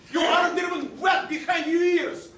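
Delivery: mocking shout. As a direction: jeer at him loudly. Insulting rival mid-quarrel.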